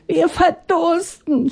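high, slow pleading voice; people crying out. Acted. Thirsty people crying to Atanga, high and slow. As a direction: drag out the plea. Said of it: "schrien die Menschen".

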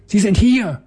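very high shrill shriek; piercing child ghost scream. A narrator's reading. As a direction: shriek it out in wild triumph. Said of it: "schrie das kleine Gespenst".

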